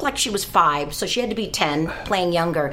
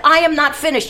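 indignant; 7 semitones higher, 5 dB louder than usual. Retold or imitated. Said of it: "I said".

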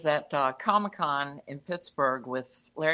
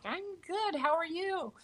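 starstruck; 13 semitones higher, 6 dB quieter than usual. Retold or imitated. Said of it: "I was, like, so starstruck".

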